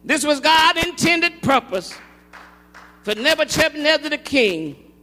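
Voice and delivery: slow, emphatic sermon phrases; weighty preacher's cadence; preaching. Acted. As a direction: proclaim it phrase by phrase, stretching words. Preaches at full force.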